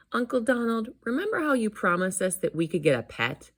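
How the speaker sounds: put-on high child's coaxing voice; pleading nephew. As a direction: wheedle an uncle as a hopeful kid.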